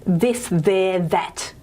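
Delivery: "This, there, that" each set apart with a buzzing voiced TH. Shown as a demonstration. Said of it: "turns up in a lot of our function words".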